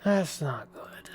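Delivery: slow whisper to himself. Real, not acted. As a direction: whisper the bad news slowly. Just ran out of ammo.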